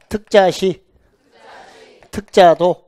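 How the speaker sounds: firm teacher's read-along; demonstrated short reading. Shown as a demonstration. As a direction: model the abbreviation for the class. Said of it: "이렇게 읽어요".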